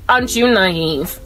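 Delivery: normal talking voice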